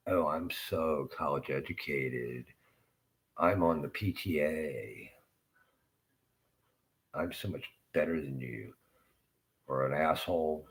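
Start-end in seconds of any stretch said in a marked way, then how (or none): 0.1-8.8 slow, drawn-out mock superiority; mock self-important. College-educated person looking down on the speaker, mock self-important. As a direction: lightly imitate a smug show-off, stretching the words. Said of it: "they think they're so intelligent".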